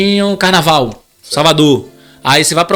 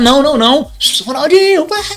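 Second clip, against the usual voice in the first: very high, shrill, acted-out shout; 10 semitones higher than usual. Retelling friends pointing and shouting at Ronaldinho: imitating friends shouting. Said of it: "gritando aquela onda toda".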